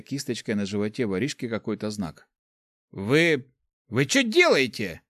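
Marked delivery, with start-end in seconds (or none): 2.9-5.0 startled, indignant stammer. A narrator's reading. Tied-up thief protesting to the teachers, indignant. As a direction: protest in confused outrage. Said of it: "возмутился Руди".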